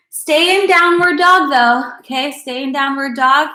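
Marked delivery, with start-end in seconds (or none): 0.1-2.0 emphatic cue. Real, not acted. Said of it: "repeats cue louder, slower".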